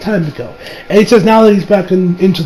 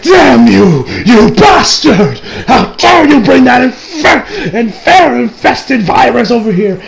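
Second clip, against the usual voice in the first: mock angry outburst; 3 semitones higher, slower than usual. Villain raging at Giorno.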